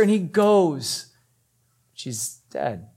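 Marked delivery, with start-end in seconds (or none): 1.9-2.9 low, soft, heavy words; hushed bad news. Desperate father hears of the death, hushed. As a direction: let the voice fall away on the news.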